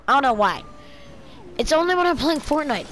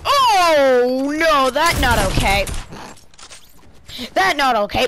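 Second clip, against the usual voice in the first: silly voice. Acted. Gamer reacting to a death, goofy put-on voice. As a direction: ham up a dopey voice. Mock broken English voice.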